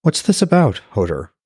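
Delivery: startled and worried, asking fast; a touch of alarm in her voice. Acted. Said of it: "She sounded alarmed".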